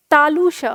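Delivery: तालु श with the tongue under the palate on श; तालु श, श made at the palate; palatal sha. Shown as a demonstration. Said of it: "तालु के नीचे होनी चाहिए".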